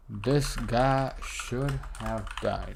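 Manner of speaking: very slow, stretched, like typing as you speak; drawn-out dictation. Shown as a demonstration. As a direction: read each word out at typing speed. Dictating a print message while typing.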